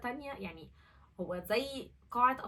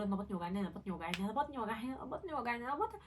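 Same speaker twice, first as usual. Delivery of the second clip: mock pained repetition; much faster than usual. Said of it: "قعدت أقول".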